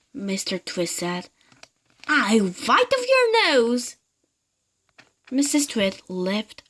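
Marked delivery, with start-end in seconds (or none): 2.1-4.0 higher, louder, slowed menace; mock monster threat. Mr Twit voicing the wriggler to scare his wife. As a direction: growl it out slowly to frighten.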